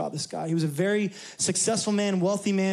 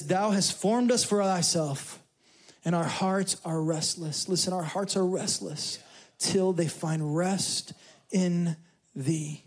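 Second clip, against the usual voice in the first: slow, measured reading of Augustine; solemn quote reading; slower than usual. Acted. Preacher reciting Augustine to the congregation, slow and solemn. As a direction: let each phrase land slowly.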